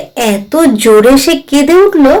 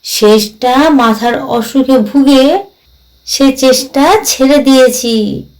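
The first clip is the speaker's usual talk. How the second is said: lightly voiced ghost, rueful. Ghost confesses failing to grasp the poems, lightly voiced, rueful. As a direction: play a ghost lightly, stretching the phrase ends. Ghost character speaking in the story.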